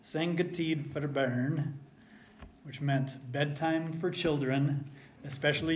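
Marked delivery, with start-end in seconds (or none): 0.0-1.8 slow, lightly voiced Norwegian grandpa; a gentle hint of a Norwegian farmer's brogue. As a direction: grandfather sending the kid to bed, in Norwegian brogue. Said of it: "in his good Norwegian brogue".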